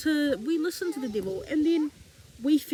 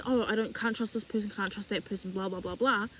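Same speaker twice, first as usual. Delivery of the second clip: lower, trailing off softer into blahs; dismissive self-quote; 6 semitones lower, 4 dB quieter than usual. Retold or imitated. Preacher quoting her own old trust complaints, dismissive. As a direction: rattle off a complaint, sinking low and quiet.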